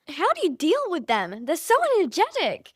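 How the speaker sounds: high, swooping mock bewilderment; retold disbelief, pitch leaping on key words; mock dismay. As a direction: imitate an exasperated stranger. Child acting out incredulous stranger.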